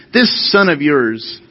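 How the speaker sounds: slow, drawn-out "This son of yours"; detached, us and them. Shown as a demonstration. Older son disowning his brother to his father, detached "This son of yours". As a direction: stretch "This son" to push him away. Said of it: "He's them".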